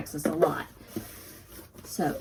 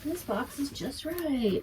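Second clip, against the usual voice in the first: Goldilocks; 6 semitones higher, 6 dB quieter than usual. Pretend. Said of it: "I feel like Goldilocks".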